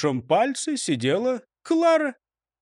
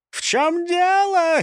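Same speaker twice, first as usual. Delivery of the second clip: angry shout; 12 semitones higher, 4 dB louder, slower than usual. A narrator's reading. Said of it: "крикнул он".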